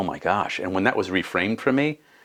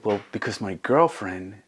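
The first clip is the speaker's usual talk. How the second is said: put-on gentle, raised small-child voice; young daughter; 4 semitones higher than usual. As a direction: imitate a child earnestly explaining to Dad. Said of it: "And she said".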